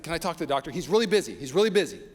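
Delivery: scared plea. Retold or imitated. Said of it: "I said".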